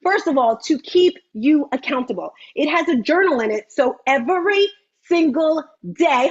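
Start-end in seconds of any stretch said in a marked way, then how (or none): none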